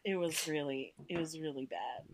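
hushed mock-sad whisper. Mock grief over Vader.

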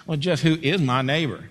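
cocky, smart-aleck challenge; self-assured lawyer laying a trap; a little swagger. Acted. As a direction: ask it with a bit of swagger. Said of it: "he said it with a little swagger".

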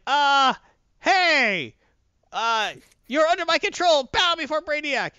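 high, loud comic villain command; hammed-up, high-pitched ranting; Brainiac. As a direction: squawk orders like a villain losing his grip. Voicing villain losing control.

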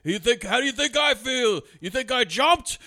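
rant, then blow up at him; hammed-up bitter ghost exploding; mock angry ghost. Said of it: "And he's like".

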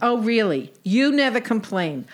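lightly voiced sarcastic sister; a hint of a dry, kvetching sister; Sadie.

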